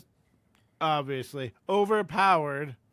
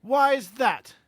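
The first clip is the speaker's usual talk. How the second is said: raised, loud, spitting challenge; spat angrily; 6 semitones higher, 6 dB louder than usual. Acted. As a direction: spit the question at him. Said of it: "Harry spat".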